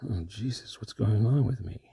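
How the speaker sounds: lightly whispery mystery man. Acted. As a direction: murmur it like an eerie stranger. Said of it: "you're turning into the mystery man".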